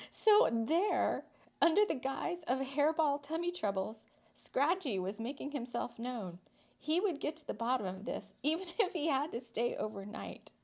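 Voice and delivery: lively storyteller reading; story narration. A narrator's reading. Reading a whimsical town story to listeners, lively narration. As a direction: tell the tale with a light touch.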